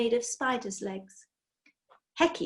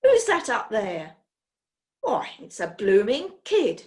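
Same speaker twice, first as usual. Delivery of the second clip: a loud rough shout up into the rafters; gruff farmer calling out; 6 dB louder than usual. Acted. Chicken farmer shouting at the boy he spots, loud and rough. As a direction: bellow at the kid hiding above.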